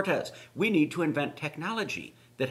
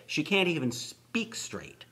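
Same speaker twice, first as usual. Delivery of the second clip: breathy whispered jab; 7 dB quieter, slower than usual. Real, not acted. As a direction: drop to a whisper for the dig.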